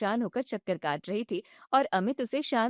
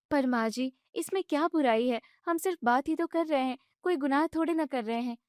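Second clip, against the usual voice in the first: higher, indignant daughter-in-law voice; young wife protesting; 4 semitones higher than usual. Acted. Bride objects when mother-in-law shuts off the gas, indignant and high. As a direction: push back, hurt and annoyed.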